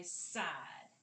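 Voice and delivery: usual speaking voice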